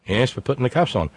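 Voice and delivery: matter-of-fact Aussie cop; lightly voiced Australian officer; mock Australian police officer. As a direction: answer patiently in a put-on Australian accent. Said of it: "police officer".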